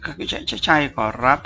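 slow, cowering stutter; scared youth admits to stammering; terrified stammer. A narrator's reading. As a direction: answer while trying to shrink away. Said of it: "ตกใจจน".

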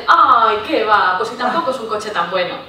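loud laughing brush-off; playful imitation of false modesty; mock modest brush-off. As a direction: mimic a modest shrug, laughing. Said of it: "No dicen".

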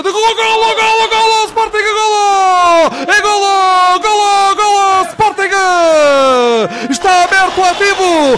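screaming goal call, high and long; goal call shout. Real, not acted. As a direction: belt out the goal, drawn out and ecstatic. Goal call in roller hockey.

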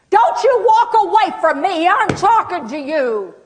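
loud, high-pitched outraged yell; angry shout. Acted. Acting angry person yelling at departing caregiver, angry. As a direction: explode at someone walking off.

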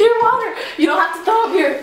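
talking through laughter; laughing. Real, not acted. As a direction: giggle out the words.

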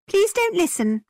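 high, playful smiling voice; smiling plea. A narrator's reading. Isabella flirts back at James, smiling. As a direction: plead sweetly with a smile. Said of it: "Isabella smiled back".

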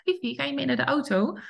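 light friendly question with a rise; the owner's first sweet invitation to the dog. Shown as a demonstration. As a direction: gently ask the dog. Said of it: "die eerste lieve vraag".

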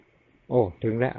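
very slow, gentle imitated words of the old monk; calm senior monk. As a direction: let each word settle, heart to heart. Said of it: "ใจนะท่านพูดนะ". (พูดช้ามาก นุ่มนวล เหมือนใจคุยกัน)

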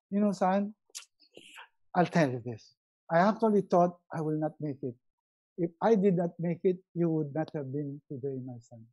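soft, low father to son; tender father. Pretend. Father quietly telling his grown son what he lived through, tender and soft. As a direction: confide in your son gently. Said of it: "or I'd say".

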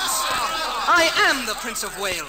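slow, loud, high declaration; indignant insistence. Acted. Prince insisting to the soldier, loud and indignant. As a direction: pound each word of the claim.

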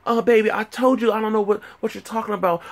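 high falsetto girlfriend impression. Girlfriend denying she knows about the box, mock falsetto voice. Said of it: "She was like".

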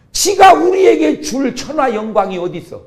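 preacher yelling at the devil's lie; indignant shout. Real, not acted. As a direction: shout it down in disbelief.

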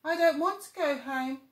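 a stubborn cub protesting; whiny little tiger. Acted. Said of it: "said Little Tiger".

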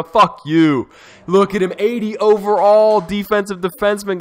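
loud, high angry outburst at the rival team; frustrated outburst. Real, not acted. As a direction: vent your fury, half laughing. Furious at rival team's pick.

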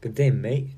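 "Good day" said as a quick "g'day"; reduced-vowel pronunciation. Shown as a demonstration. Practising the Australian greeting, "Good day" shortened to "g'day". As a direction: say "Good day" with a hard g and hardly any first vowel. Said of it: "you pronounce it good day".

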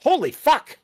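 loud, high exasperated outburst; shouted giving-in. Real, not acted. Mock exasperation at being called cheap.

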